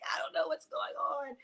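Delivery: retold tearful bewilderment; a touch of weepy confusion; mock boohooing. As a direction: imitate yourself mid-cry, mildly. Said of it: "when I say I was boohooing".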